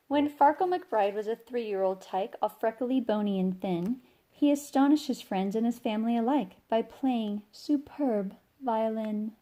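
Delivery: put-on lively read-aloud for kids; story narration. A narrator's reading. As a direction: read it like a bedtime picture book. Reading picture book aloud.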